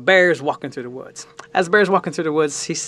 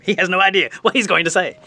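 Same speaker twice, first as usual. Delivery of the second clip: higher-pitched mock dismay; imitated alarm; 5 semitones higher than usual. Host with three hundred people waiting, mildly alarmed. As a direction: act the host in a mild panic.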